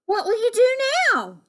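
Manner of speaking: high-pitched worried question; concerned exclamation. Acted. Jubal asking the homeless toads, exclaiming. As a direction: ask it high, swooping down at the end. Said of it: "Jubal exclaimed".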